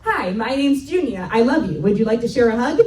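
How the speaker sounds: a hint of an over-eager little girl; lightly voiced child blurting a greeting; imitated child. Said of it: "So she goes".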